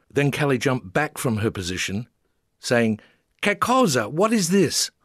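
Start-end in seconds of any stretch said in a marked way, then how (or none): 3.4-4.9 much higher, louder questioning voice; pointed question. A narrator's reading. Teacher miming yesterday to Italian man, exaggerated question. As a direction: ask it big so he understands.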